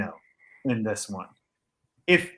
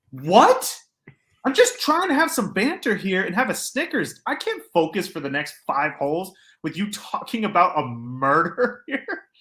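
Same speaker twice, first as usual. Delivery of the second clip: higher, alarmed rant; retold flustered outburst; alarmed disbelief; 7 semitones higher than usual. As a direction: protest the creepy tale, half laughing.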